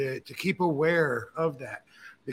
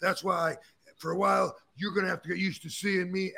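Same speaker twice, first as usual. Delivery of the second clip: wrestler promo boast; 3 semitones higher than usual. Retold or imitated. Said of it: "every wrestler promo is about an ego".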